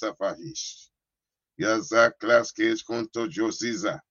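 rhythmic, chanted stream of tongues; praying in tongues. Real, not acted. Preacher switching over to some dimensions, praying fervently in tongues. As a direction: pray in repeating syllables, driving on steadily.

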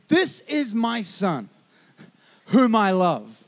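lightly voiced God, very slow and measured; voice from heaven. God the Father declaring his love for his Son, slow heavenly voice. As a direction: let each phrase land slowly. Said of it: "A voice from heaven said".

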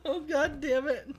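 high, soft, helpless laughing curse. Real, not acted. Host unable to keep composure, laughing. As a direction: swear through real laughter. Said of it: "I'm laughing at myself".

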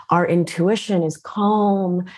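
usual speaking voice

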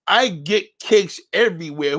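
slow, drawn-out mock boast; mocking quote. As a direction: parrot his boast slowly, making it sound ridiculous. Mocks a viewer's boast.

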